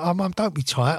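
light, casual plea to mum; milder complaint. Retold or imitated. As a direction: gently chide mum in passing. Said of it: "I didn't obviously say it like that".

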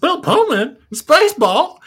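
put-on high, loud drunken slur; town drunk slur. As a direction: slur it, tipsy and shocked. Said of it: "but slurring his words".

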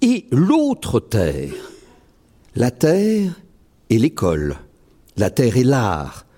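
measured litany recital; poem recital. Acted. Poet closing his reading with a litany, declaiming. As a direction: chant the repeated la terre lines.

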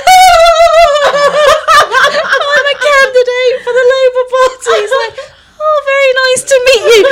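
high, fast, laughing through it. Retold or imitated. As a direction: rush out the words while cracking up. Flustered exchange retold, laughing.

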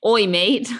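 badly faked British greeting; attempted British accent. Shown as a demonstration. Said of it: "don't think I can do a British accent".

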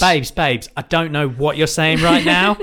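put-on light Essex accent, drawn out; cheeky Essex accent as Marjorie. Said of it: "I've decided that she's from Essex".

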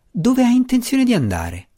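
high, startled question; disbelieving. A narrator's reading. Gnome stunned by his friend's plan, high startled question. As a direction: voice jumps up in disbelief. Belwar cannot believe his ears.

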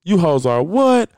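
high, very slow, crying drawn-out whine; Mimi voice. Retold or imitated. Mocking viewers who waste their lives, in a high slow crying whine. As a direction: stretch it into a high mock-weepy wail. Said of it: "In my Mimi voice from Love and Hip Hop Atlanta".

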